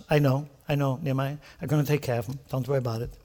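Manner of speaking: quiet, low "I know, I know"; God comforting Nehemiah softly; soft reassuring God. Retold or imitated. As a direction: soothe him like a calm father. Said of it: "God says".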